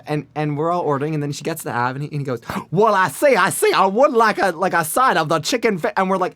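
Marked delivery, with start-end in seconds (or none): 2.7-5.9 Foghorn Leghorn voice. Retold or imitated. Friend orders dinner in a loud, higher Foghorn Leghorn voice. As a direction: belt it like a blustery cartoon rooster. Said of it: "doing the voice".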